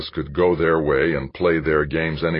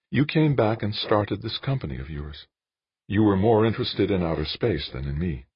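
higher-pitched woman character, reproachful; Jane, reproachful; 6 semitones higher than usual. A narrator's reading. Jane reproaches Dan for leaving, higher woman's voice. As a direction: voice the woman higher, holding it against him. Narrator voices Jane's dialogue.

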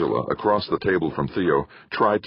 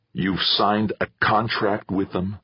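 darkly; 3 semitones higher, slower than usual. Acted. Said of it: "Victor asked darkly".

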